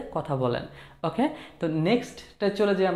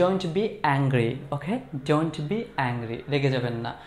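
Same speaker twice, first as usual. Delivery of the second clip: slightly annoyed; 3 semitones lower, much slower than usual. Shown as a demonstration. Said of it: "আমি একটু বিরক্ত হয়ে বললাম যে".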